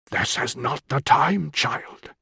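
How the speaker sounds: slow, lightly voiced father; father's rebuke. A narrator's reading. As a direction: put the daughter off slowly, dropping away on the last word. Father puts off daughter's question.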